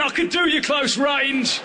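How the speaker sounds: high, slow cat threat; a cornered cat making a threat. Acted. The cat answering back.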